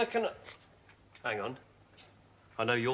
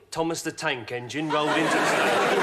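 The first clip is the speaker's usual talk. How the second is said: put-on Thomas narrator in a famous musician's accent, lower; 5 semitones lower than usual. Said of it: "Do it with the accent, you know".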